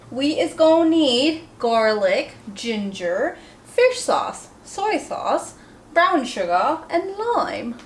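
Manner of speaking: playful put-on Indian accent; hammed-up Indian accent for the viewers; mock Indian accent. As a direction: list the ingredients in a joking Indian accent. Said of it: "in Indian accent".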